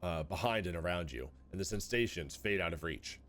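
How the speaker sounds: story narration. Acted. Reads game narration aloud.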